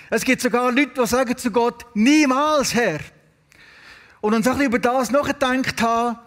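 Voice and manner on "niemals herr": emphatic refusal. Retold or imitated. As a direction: quote a firm, absolute no. Quotes people refusing God outright.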